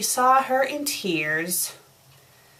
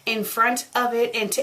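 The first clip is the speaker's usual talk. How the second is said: usual speaking voice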